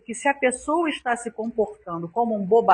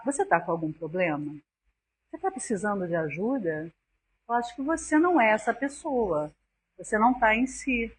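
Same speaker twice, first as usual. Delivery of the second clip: gentle and caring; 4 dB quieter than usual. Shown as a demonstration. Speaker to someone who offends her, gentle soft concern. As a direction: ask softly as if offering help. Showing a compassionate reply to aggression.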